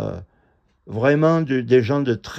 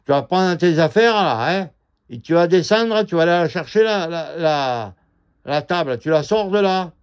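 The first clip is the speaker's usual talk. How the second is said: mocking the man's bossy order; 3 semitones higher than usual. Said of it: "il fait".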